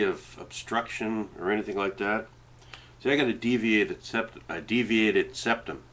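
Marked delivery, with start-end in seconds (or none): 3.0-5.8 blocked nose, stumbling words; stuffed nose. Real, not acted. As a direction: talk through a stuffed-up nose. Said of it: "I have difficulty pronouncing words here".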